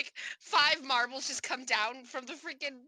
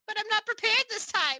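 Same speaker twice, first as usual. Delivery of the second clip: character voice; 9 semitones higher, 4 dB louder than usual. Acted. Character protests being thrown.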